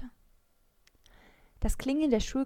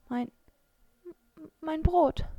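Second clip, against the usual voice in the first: broken start, then high and louder on mein Brot; stammering; 8 semitones higher, 4 dB louder, slower than usual. A narrator's reading. Mara stammers over her ruined sandwich, shocked. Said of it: "stammelte sie".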